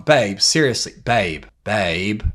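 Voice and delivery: disapproving repeated call; very judgmental. Shown as a demonstration. Coach acts out judging his partner, very judgmental. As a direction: say it as if judging someone. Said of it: "Very judgmental tone".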